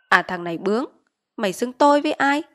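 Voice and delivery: indignant question, pitch climbing; mild offended anger. Acted. Village chief offended that Quý says tôi, mildly indignant. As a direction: take offense at his insolence.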